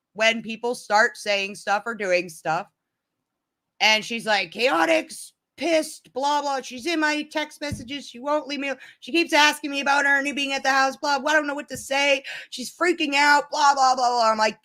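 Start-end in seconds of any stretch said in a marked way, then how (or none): 4.5-14.3 mock-whiny retelling of panic; imitating Tracy. Quoting Tracy complaining about Chaotic, high and mocking.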